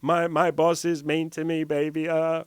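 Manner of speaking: high, slow, hammed-up whimper to a girlfriend; man falling apart to his girlfriend, mock tearful whine; mock whiny crying. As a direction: whine it like a grown man about to cry, playing it up. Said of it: "start crying and be like".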